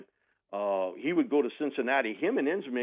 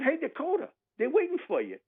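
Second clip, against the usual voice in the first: mock calling out. Coach calling the kicker.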